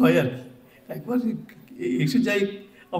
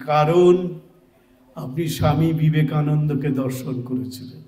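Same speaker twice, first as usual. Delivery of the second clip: loud and clipped apart. Retold or imitated. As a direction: spell it out loudly, word by word. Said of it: "আমি কেটে কেটে বলছি". (জোরে জোরে, কেটে কেটে বলা)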